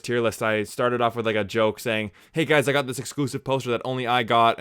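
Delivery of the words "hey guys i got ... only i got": smug mock brag about an exclusive poster; sarcastic bragging. Youtuber to his viewers, mock smug brag. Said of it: "the inflection in my voice to say that I was sarcastic".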